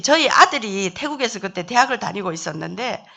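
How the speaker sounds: ordinary talk, nothing marked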